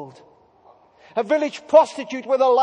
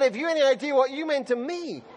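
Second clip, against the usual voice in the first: echo with a laugh; 2 semitones higher than usual. Retold or imitated. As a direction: turn his words back to him with a warm laugh. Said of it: "She said".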